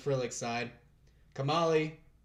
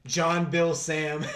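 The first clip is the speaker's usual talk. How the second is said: laughing joke; 3 semitones higher, 6 dB louder, much slower than usual. Acted. Jokes his short name aloud.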